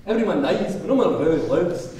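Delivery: a showy Scottish accent, like quoting a film hero. Shown as a demonstration. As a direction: belt the line out in a Scottish accent. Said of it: "and sound Scottish".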